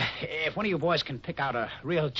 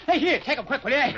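higher and louder, laughing nervously as you push the bag away; panicky plea; 11 semitones higher, 8 dB louder than usual. Acted. Smith begging the Indian to take the snakes back, nervous laughing panic. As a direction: get rid of it now, half laughing in alarm.

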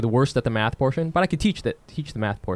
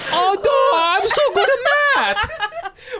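much higher, louder hammed-up accent, laughing throughout; mock Asian accent; 5 dB louder, slower than usual. Tutor answering students who say it isn't fair, in a loud mock Asian accent. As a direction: ham up a boastful Asian caricature, slowing on the taunts. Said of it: "I would be like".

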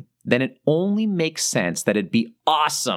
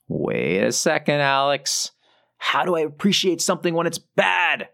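higher doubtful listener voice; lightly voiced skeptical listener; imagined listener; 4 semitones higher than usual.

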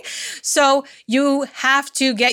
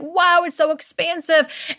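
higher, slow mock wonder on so expansive; awed; 5 semitones higher than usual. After a great launch, slow higher mock awe. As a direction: savour the high of a big win. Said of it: "It's like".

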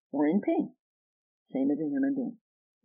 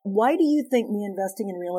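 inviting question; 4 semitones higher than usual. Shown as a demonstration. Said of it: "If we could stop and say".

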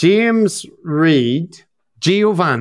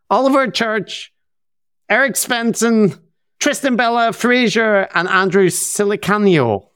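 higher, sing-song mock Norwegian; Norwegian accent; 6 semitones higher than usual. Host thanking patrons, lilting put-on Norwegian accent. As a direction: slip into a Norwegian lilt on each name. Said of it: "I can't stop doing the Norwegian thing".

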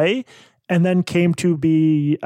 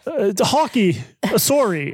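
Canadian accent; 5 semitones higher, slower than usual. Shown as a demonstration. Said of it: "Can you do one first so I can".

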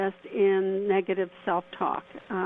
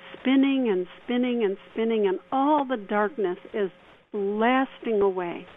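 guided meditation. Acted. Leads a mini meditation.

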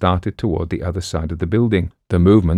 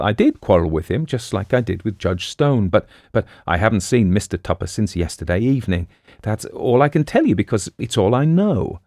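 lightly voiced young woman, insistent, rising at the end; defensive girl; 3 semitones higher than usual. Girl answering the detective's questioning, mildly defensive. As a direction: protest that you've nothing more to tell.

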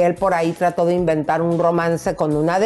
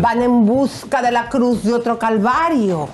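grand poetry declamation; 4 semitones higher than usual. Pretend. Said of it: "voy a declamar con baile".

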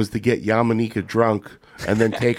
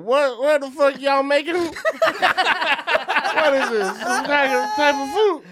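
mock drunk girlfriend; 13 semitones higher than usual. Imitating Yamanika drunk at food place.

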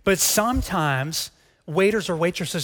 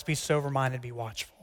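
softer repeat of "Be sober-minded, be watchful"; hushed second reading of the verse; quiet repeated reading; 4 semitones lower, 6 dB quieter than usual. Shown as a demonstration. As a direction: say "be watchful" almost under the breath. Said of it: "where he starts".

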